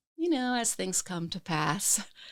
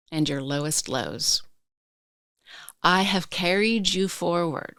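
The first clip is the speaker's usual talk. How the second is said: quiet inner voice. Retold or imitated. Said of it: "that said very quietly".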